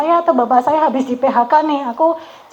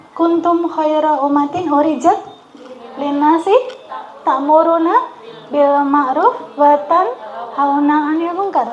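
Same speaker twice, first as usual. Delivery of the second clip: Quranic recitation; 3 semitones higher than usual. Acted. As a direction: intone it like Quran reading. Quoting the Quran.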